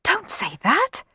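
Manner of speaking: high, drawn-out retort; sharp retort. A narrator's reading. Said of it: "retorted Cenerentola".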